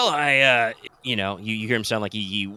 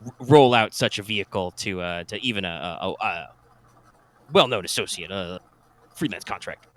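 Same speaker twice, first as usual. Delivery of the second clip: slow drawl, pausing as if walking; a hint of a folksy sergeant, slowly. GM voices sergeant on phone.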